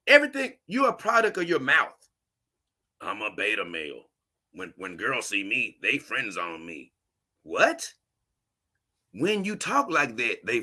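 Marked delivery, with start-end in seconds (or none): 3.0-6.9 much lower and softer, dragging sad-sack voice; mock a self-pitying guy, low and limp; deflated mock mumble; mopey mock whine. 7.4-7.9 high rising what; incredulous what. Real, not acted. Incredulous reaction.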